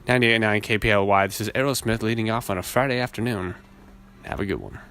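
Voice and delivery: confident on-air station ID; radio DJ voice. Shown as a demonstration. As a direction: announce it like a Friday afternoon DJ. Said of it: "See, that's legit".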